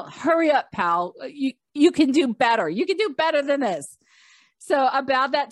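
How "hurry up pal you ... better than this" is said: fed-up nagging. Retold or imitated. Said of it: "I'm, like, fed up".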